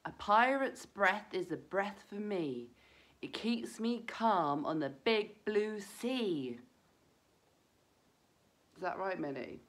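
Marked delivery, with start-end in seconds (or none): 0.0-6.6 slow, clear chant to repeat together; rhyme for children. Shown as a demonstration. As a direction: lead the children through the rhyme. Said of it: "let's all try that rhyme again".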